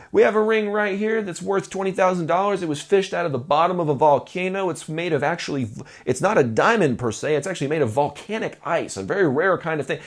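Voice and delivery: a lightly hammed-up salesman's cadence; playful mock sales pitch. Shown as a demonstration. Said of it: "my fun little sales voice".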